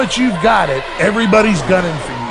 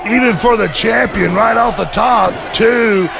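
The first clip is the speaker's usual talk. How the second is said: excited commentary; 3 semitones higher than usual. Real, not acted. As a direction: shout the count as it builds. Live near fall call.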